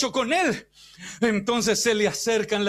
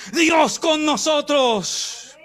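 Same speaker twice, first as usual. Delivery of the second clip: louder, drawn-out rallying cry; slow battle cry; 4 semitones higher, 4 dB louder, much slower than usual. Retold or imitated. Preacher voicing an army's rallying cry, slow and loud. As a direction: lift the troops with it. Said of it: "Otra frase era".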